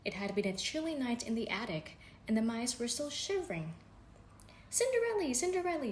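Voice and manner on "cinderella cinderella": high squeaky mouse calling her name. Acted. Mouse Jack calling up to Cinderella, high and squeaky. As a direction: call out high like a tiny mouse. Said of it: "Jack called".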